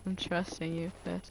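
whisper. Real, not acted. Unvoiced whisper to teammate.

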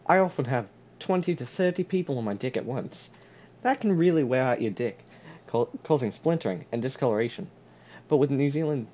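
mock product testimonial, New Zealand accent. Spoof sealant advert to a friend, New Zealand accent. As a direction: sell it earnestly in a put-on New Zealand accent. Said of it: "how about I do a New Zealand".

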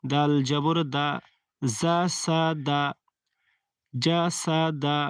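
drawn-out Arabic syllables, জাসাদা with long open a; আরবি উচ্চারণ দেখানো; Quran recitation demo. Shown as a demonstration. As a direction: recite জাসাদা slowly, each a lengthened. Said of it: "আকার দিয়ে পড়তে হবে".

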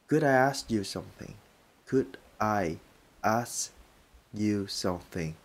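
"ask" said without the final k, "as"; drop the k. Shown as a demonstration. Teacher showing how to skip the k sound. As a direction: leave the k off "ask". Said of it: "không có đọc k".

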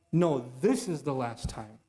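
imitating a hollow self-promise; false promise. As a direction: swear it half-heartedly, slowly. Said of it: "And you're like".

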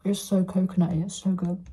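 chewing while talking; mouth full. Real, not acted. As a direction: talk through a mouthful. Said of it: "So I'm eating this right now".

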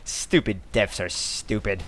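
ordinary talk, nothing marked

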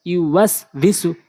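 syllables spaced out; slow demo. Shown as a demonstration. Teacher reading so learners can follow, slowly. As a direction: take the word slowly, part by part. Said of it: "slow বলছি এই জন্য".

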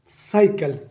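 साइकिल set apart after a pause; separated word part. Shown as a demonstration. Teacher dividing a word for students, साइकिल said separately. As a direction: say साइकिल as its own clear chunk. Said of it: "या syllable है".

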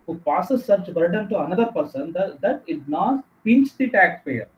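very slow, word-by-word dictation; dictating notes. Acted. Teacher slowly dictating the definition of indirect tax. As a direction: let every word land so they can write it.

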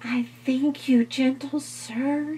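very high, breathy fly voice; polite little fly. Acted. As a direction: thank him in a tiny voice.

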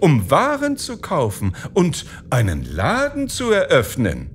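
a wife coaxing her husband; wife's voice. A narrator's reading.

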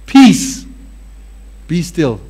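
peace lifted, be still dropped; demo command. Shown as a demonstration. Preacher showing the congregation how to say peace be still. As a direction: demonstrate the calm command. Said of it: "I'm gonna show you something".

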